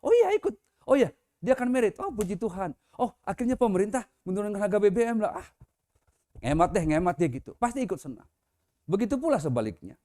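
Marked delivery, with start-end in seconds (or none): 0.0-7.3 happy listener reaction. Retold or imitated. Listener rejoicing at good news, happy and excited. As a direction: gush like you just heard great news. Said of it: "akan ikut bergembira".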